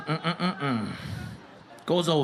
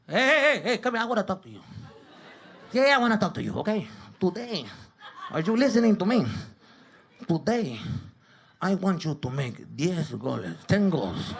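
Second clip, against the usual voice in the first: Latino dad voice. Retold or imitated. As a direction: lean in like a dad laying down the law. Dad threatening kids before soccer.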